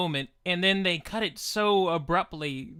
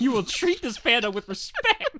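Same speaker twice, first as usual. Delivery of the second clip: mock tough guy; 5 semitones higher than usual. Podcaster mocking a movie scene, mock tough-guy threat. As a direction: growl out the threat like an action star. Voicing Liam Neeson threatening.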